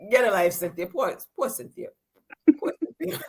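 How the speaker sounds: hammed-up sympathy, barely voiced; mock pity. Mocking pity for Cynthia.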